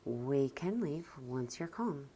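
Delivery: slow, gentle reassurance; gentle parent's promise. Shown as a demonstration. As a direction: calmly tell a small child. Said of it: "I just gently say".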